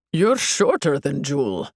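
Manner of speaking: lightly voiced guy; teenage guy fan. A narrator's reading. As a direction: size her up as a guy fan. Fan guy sizes her up.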